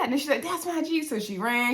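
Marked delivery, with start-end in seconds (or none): 0.4-1.0 high-pitched imitation of a thrilled owner; Kimmy, excited. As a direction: mimic giddy excitement, pitched up. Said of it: "She was so excited".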